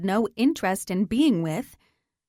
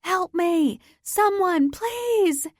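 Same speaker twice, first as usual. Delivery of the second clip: pleading scream climbing higher and louder; desperate screaming; 10 semitones higher, 4 dB louder, much slower than usual. Acted. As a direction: beg anyone to hear you. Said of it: "I scream and scream".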